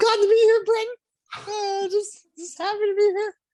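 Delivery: very high, squeaky, loud voice. Podcast co-host answers the host's introduction in a Mickey Mouse voice. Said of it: "That's who you sounded like".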